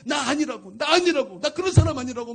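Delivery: loud, high, aggrieved outcry; impassioned retold plea of innocence; wronged protest. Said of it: "얼마나 억울한지".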